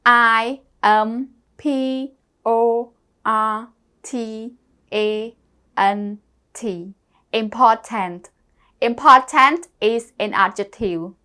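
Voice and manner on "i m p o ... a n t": slow letter-by-letter spelling; spelling aloud. Shown as a demonstration. Teacher spelling sadness for the class, slow and deliberate. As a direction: spell out S A D N E S S slowly, one letter at a time. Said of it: "Important spell".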